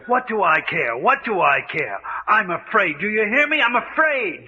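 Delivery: insistent, frightened repeats; mild acted terror, pleading; hysterical fear. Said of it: "a fine case of hysteria".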